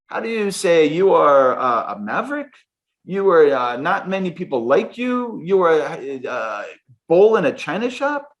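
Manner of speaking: put-on German accent. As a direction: imitate the boss groping for English words in a German accent. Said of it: "play around with this German accent".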